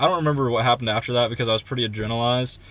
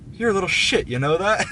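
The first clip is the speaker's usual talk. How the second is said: higher-pitched mock contempt; retold angry insult; 7 semitones higher than usual. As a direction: sneer it as the angry man.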